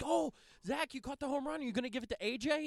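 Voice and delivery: put-on high, fast kid voice; squeaky kid quote; mocking kid voice. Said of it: "He's like".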